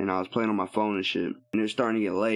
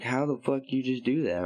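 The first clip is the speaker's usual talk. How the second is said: retold disbelief, pitched up; amazed uncle; 4 semitones higher than usual. Uncle reacting to the teller's hit, mildly amazed. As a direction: imitate a stunned question, higher.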